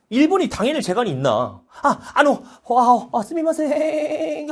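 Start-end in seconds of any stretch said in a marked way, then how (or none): 1.8-4.5 high, stammering mock apology; stammer, then drag out the last word high; flustered Japanese apology. Cornered Japan giving in to three powers, mock meek apology.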